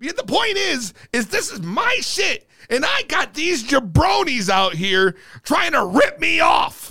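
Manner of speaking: worked-up, aggrieved, fired-up, deliberate delivery. Talking with another person about his show, the speaker is a little fired up. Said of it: "Sorry, I'm a little fired up right now".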